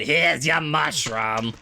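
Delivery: slow, gruff cook voice; Sal the cook. Acted. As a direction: hand the plate over like a gruff diner cook. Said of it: "I said".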